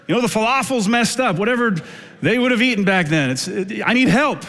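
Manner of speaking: high, pleading complaint; whiny Martha. Retold or imitated. Martha pleads with Jesus about her sister, high and whiny. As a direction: whine to Jesus that nobody helps.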